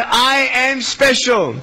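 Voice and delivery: slow, spaced-out model line; measured call for the audience to repeat; repeat-after-me lead. Shown as a demonstration. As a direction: lead a crowd to echo it, slowly. Leads children in a repeat-after-me.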